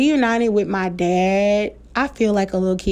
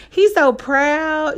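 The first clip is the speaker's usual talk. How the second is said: slow and higher, laughing with pride; laughing proudly; 6 semitones higher, much slower than usual. Real, not acted. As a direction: laugh it out, beaming. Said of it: "laughing and proud".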